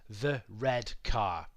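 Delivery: slowly, word by word; teacher spelling out a phrase; slow demo. Shown as a demonstration. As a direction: lay out each word of "the red car." slowly. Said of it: "let's take the phrase".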